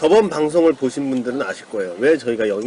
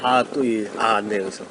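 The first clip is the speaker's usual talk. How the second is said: ordinary talk, nothing marked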